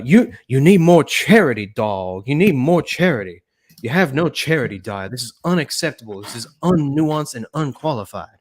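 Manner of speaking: hammed-up pious scolding; mock indignant rebuke. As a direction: pound out the key words in mock outrage. Acted scolding of Dyer, skit.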